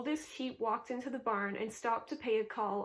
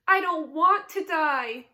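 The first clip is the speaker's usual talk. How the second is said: slow, loud, higher tearful moan; 5 semitones higher, 10 dB louder, slower than usual. A narrator's reading. Pig moaning in tears about dying. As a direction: draw the words out in misery. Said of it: "he moaned".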